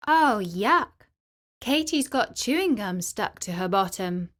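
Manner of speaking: loud mocking call across the classroom. Samantha calling out to the class, loud and mocking. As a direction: sing it out to embarrass her in front of everyone. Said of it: "Samantha called out".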